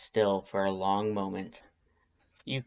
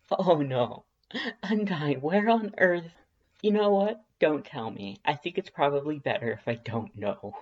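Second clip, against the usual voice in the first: amused disbelief; 5 semitones higher than usual. Acted. Laughing at the surprise tree.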